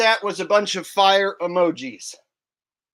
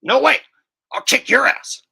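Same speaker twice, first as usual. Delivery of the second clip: loud, higher panicked cartoon yell; Beavis impression; 5 semitones higher, 7 dB louder than usual. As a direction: squeal in mock panic. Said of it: "save that impression".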